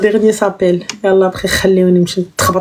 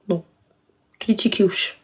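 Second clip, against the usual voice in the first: whispering; 3 semitones lower, 7 dB quieter than usual. Real, not acted. Hushed aside during live.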